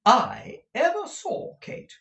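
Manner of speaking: high, effusive chatty mother; doting older lady's high-pitched enthusiasm; gushing Mrs. Nickleby. Acted. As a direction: gush admiringly in a high, loud voice.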